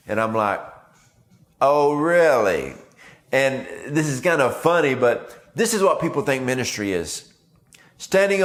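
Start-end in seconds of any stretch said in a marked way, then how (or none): 1.6-2.7 slow, drawn-out doubtful "Oh, really?"; a knowing, skeptical challenge; louder, slow mock-doubtful reply. Skeptical retort to pious claim.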